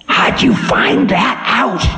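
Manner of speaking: high, ominous voice of Time; stern ancient Time. Acted. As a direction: warn the demon of doom.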